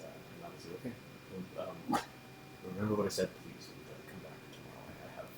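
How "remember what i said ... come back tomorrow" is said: barely audible. Acted. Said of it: "Roll what now?".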